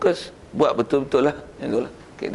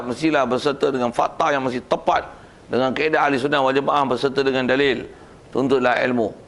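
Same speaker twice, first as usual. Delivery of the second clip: steady, emphatic sermon phrasing; firm khutbah delivery. Shown as a demonstration. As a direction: press each point home to the congregation. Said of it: "intonasi tu disebab penyampaian tegas lah".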